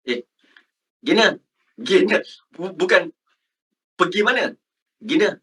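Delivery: quick colloquial questioning; casual street Malay. Shown as a demonstration. Teacher imitates how students talk outside, casual slang. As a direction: toss it out in everyday slang. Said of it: "Macam tu kan?".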